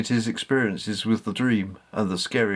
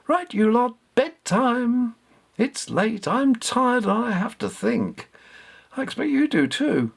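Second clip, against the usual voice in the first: higher and louder, briskly sending everyone to bed; loud and firm; 11 semitones higher than usual. Acted. Katy telling Richard and Baba it's bedtime, loud and firm. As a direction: call it out high and loud like ending a party. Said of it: "said loudly".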